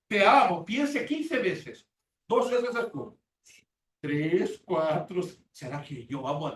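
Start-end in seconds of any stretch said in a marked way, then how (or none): 0.1-0.6 mock loud declaration. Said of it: "abre la boca para decir".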